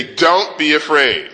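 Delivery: calm reassurance. Shown as a demonstration.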